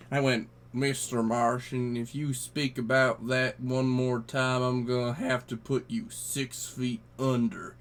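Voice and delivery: lightly voiced cowboy spinning a yarn. Space cowboy telling guys a tall tale, folksy cowboy voice. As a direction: tell it like a folksy cowboy by the fire.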